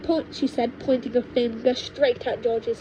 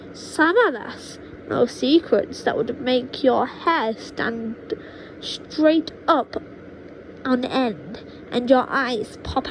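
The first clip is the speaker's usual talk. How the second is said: witch grandma boasting. Acted. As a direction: savour each dark word. Witch grandma menacing George.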